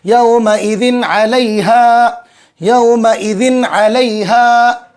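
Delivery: "यौमइदिन अलैहा" with short n and long vowels; unheld n recitation. Shown as a demonstration. Teacher models reciting "यौमइदिन अलैहा" without nasal hold on n. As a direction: recite "यौमइदिन अलैहा" measured, n running straight into अलैहा. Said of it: "इस तरीके से".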